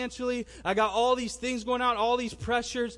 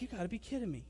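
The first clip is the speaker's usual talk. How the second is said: stunned disbelief; 11 dB quieter, faster than usual. Retold or imitated. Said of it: "his jaw drops".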